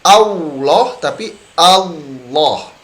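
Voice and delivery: 'Allah' slowly, first with rounded lips, then without; right and wrong Allah contrasted. Shown as a demonstration. Teacher contrasting wrong and right Allah, slow. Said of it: "Jadi bukan".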